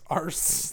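arse with a long British ar, no r; mock British arse. Shown as a demonstration. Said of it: "They put an R in it".

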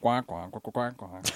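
quiet duck quacks. Pretend. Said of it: "that was a duck".

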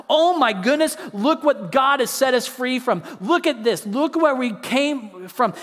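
grateful exclaiming. Retold or imitated. Preacher voicing what Israel should have said, excited and grateful. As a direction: marvel aloud at being set free. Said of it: "what they should have done".

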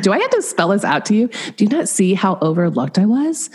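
mock indignant back-talk; sassy. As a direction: replay a sassy, exasperated comeback. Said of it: "had this sassy voice".

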